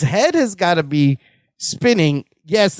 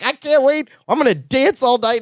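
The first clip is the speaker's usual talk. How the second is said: higher-pitched eager quote; retold excitement; 5 semitones higher than usual. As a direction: imitate a man thrilled to celebrate. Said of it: "Larry's excited".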